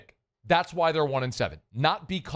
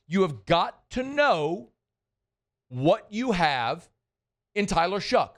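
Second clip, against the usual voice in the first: emphatic repeat; 2 semitones higher, slower than usual. Shown as a demonstration. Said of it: "I'm gonna say this again".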